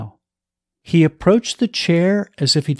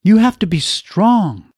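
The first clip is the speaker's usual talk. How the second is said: imploring; 6 semitones higher, 3 dB louder than usual. A narrator's reading. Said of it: "she implored him".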